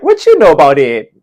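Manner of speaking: loud, put-on African American English; AAVE. Pupils showing off classroom English, loud playful AAVE accent. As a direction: imitate kids trying out AAVE with gusto. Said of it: "I'm gonna teach A A V E".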